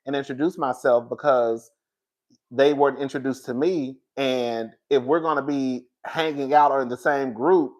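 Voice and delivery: hushed quote of Riley explaining; quiet explaining. Retold or imitated. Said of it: "She was like".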